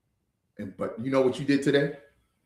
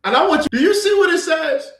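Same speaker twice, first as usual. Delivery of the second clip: raised, heated voice; louder, higher scolding; loud rant; 11 semitones higher, 8 dB louder than usual. Real, not acted. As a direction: lay into them, fired up. Angry rant about weed culture.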